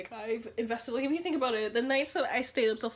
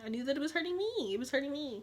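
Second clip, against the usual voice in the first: higher, sing-song repeat; mock insistence; 3 semitones higher than usual. Insisting it was hurting her, high and sing-song. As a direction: lift the pitch playfully on the repeat. Playful repeat with rising pitch.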